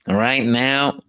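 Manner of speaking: cracking up mid-imitation; laughing through the words. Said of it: "he would still be able to say".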